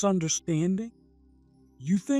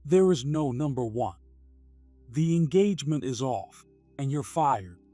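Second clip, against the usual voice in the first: lower-voiced man, cold dismissal; 5 semitones lower than usual. Company president ends the engagement and job, cold. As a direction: fire him coldly in a low voice. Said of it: "Michael responded coldly".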